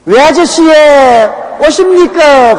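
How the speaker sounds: high, slow Gyeongsang greeting imitating a child; Gyeongsang dialect child. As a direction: mimic a little kid greeting in Gyeongsang dialect, with a laugh. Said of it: "완전히 경상도 사투리를 써". (경상도 사투리로 아이 흉내)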